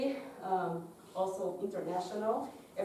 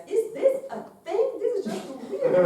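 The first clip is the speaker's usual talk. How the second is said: laughing; 10 semitones higher, 6 dB louder than usual. Retold or imitated. Student retells her puzzled question in class, laughing. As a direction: laugh while you ask it.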